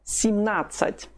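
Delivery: Семнадцать slowly, starting with "sim"; slightly reduced ye. Shown as a demonstration. Teacher repeats seventeen, Семнадцать with reduced "sim" at the start. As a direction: weaken the first vowel of Семнадцать to "i". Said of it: "so it's reduced slightly".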